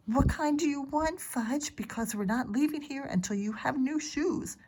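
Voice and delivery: firm, meaning it. Acted. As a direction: make him know you mean it. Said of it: "like she meant it".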